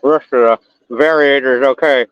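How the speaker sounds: talking around a flashlight in mouth. Real, not acted. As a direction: mouth held open by a flashlight. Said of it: "as I talk to you with a flashlight in my mouth".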